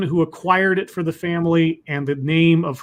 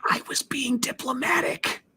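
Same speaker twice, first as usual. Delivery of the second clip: high protest; 7 semitones higher than usual. Real, not acted. Mock defence, light high voice.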